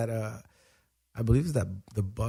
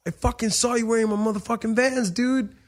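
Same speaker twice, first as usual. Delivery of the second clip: higher, heated accusation; retold accusation; 8 semitones higher than usual. Man confronting the kid who took his Vans, high heated accusation. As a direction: call him out hard.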